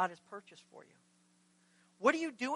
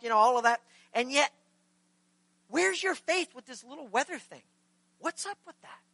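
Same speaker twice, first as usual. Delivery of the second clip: exasperated, emphatic string of questions; a little upset; 2 semitones higher, 5 dB louder than usual. Acted. Jesus chiding disciples over their lack of faith, mildly upset. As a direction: scold friends who should know better. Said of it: "Jesus is a little bit upset".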